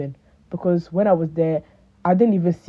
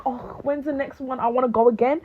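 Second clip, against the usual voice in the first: higher-pitched, hammed-up longing; mock grieving; 6 semitones higher, 4 dB quieter than usual. Friends pining for the next concert, mock grieving. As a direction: plead as if mourning it, pitched up. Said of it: "we were grieving".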